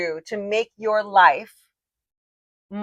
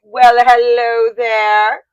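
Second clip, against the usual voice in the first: slow, then higher and louder, like Snow White greeting a bird; talking to a bird on a walk as Snow White; 4 semitones higher, 8 dB louder than usual. Retold or imitated. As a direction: coax a bird like a fairy-tale princess. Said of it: "Snow White talking to a bird kind of thing".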